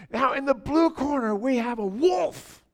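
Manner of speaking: Jesus as the ring announcer; fight announcer. Retold or imitated. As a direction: introduce the wolf like a ring announcer.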